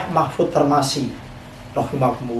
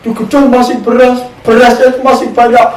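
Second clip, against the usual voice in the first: raised preaching voice; 7 semitones higher, 5 dB louder than usual. Acted. Preacher voicing God's reply, rising.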